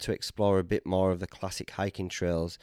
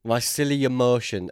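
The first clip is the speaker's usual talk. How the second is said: "My silly emotion" said louder and brighter, selling it; louder name pitch; 3 semitones higher, 5 dB louder than usual. Pretend. Selling the joke name to his friend, louder. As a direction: announce it proudly. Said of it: "That's the name of a new restaurant".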